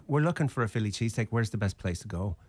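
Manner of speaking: quick Irish brogue, then easing off; put-on Irish accent. Explaining to puzzled women at the bar, Irish accent. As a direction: repeat the question as a fake Irishman. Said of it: "I was in the spunky Irish mood".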